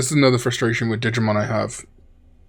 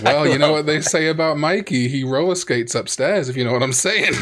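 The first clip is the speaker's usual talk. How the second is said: lightly voiced gossiping mum; hint at it like a mum, a little higher at first; mum's innuendo; 3 semitones higher than usual. Retelling a comedian's bit, lightly imitated mum. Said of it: "like, mums will say".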